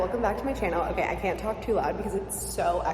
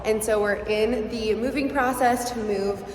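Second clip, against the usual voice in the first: talking in an echoing empty store; hollow room reverb on the voice; echoey room. Real, not acted. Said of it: "it's so echoey in here".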